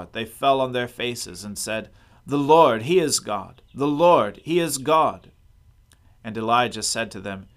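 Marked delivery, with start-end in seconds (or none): 2.3-5.3 loud acclaiming shout; crowd's cry. Acted. The people on their faces acclaiming the Lord, loud awed shout. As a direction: shout it out in awe.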